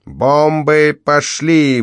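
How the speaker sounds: mother's gleeful war shout; shouted command. A narrator's reading. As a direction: yell it out like dropping bombs. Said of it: "выкрикнула мать".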